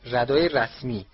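«ردای رسمی» said slowly, falling at the end; emphatic repeat. A narrator's reading. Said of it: "خانم ویزلی تکرار کرد". («ردای رسمی» شمرده و با تأکید)

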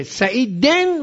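"سعیدن" with a weighted -den; "سعیدن" as sa'i-den, last syllable held; genitive ending. Shown as a demonstration. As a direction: stress the final -en of "سعیدن". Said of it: "وقتی حرف جر میاد".

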